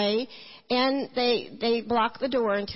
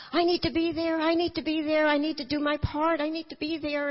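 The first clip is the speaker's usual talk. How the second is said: higher, pleading mother's cry, lightly voiced; mild mock mama pleading; 6 semitones higher than usual. Mother crying out her wish.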